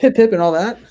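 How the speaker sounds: teasing the British troops in a mock British voice. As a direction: put on a jolly English toff accent. Joking about British paratroopers.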